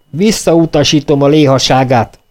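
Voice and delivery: rising nervous indignation; nervous shout. Acted. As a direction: snap back in irritation. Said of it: "kiáltotta idegesen Pugacsev".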